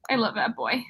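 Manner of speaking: breathy adoring whisper; hushed fond confession. Real, not acted. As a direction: whisper it like a secret crush. Gushing over favourite character.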